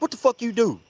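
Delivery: high, indignant question; hammed-up alarmed demand; mock accusation. Friend accuses him.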